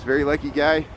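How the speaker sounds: dry, deadpan sarcasm; sarcastic. Real, not acted. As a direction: say it as if you mean the opposite. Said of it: "you know I'm being sarcastic".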